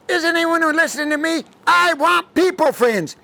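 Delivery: put-on high, wailing little-girl demand; whining little girl. Lonely girl refusing the cat, high wail. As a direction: whine it high, drawing out the last words.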